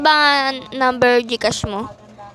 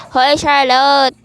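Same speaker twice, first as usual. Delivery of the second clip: ordinary talk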